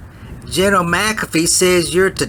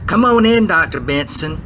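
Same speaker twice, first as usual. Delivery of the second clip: calling out. Acted. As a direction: call her in from across the room. Calling doctor into room.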